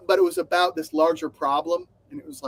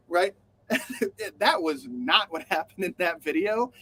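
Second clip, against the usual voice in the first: ordinary delivery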